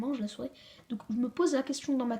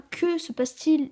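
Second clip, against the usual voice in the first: questioning read; 5 semitones higher, 5 dB louder than usual. Shown as a demonstration. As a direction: read it like a real question to the class. Rereads the question example.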